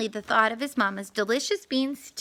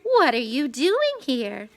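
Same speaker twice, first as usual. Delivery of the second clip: purring cat. Acted. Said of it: "Okra purred politely".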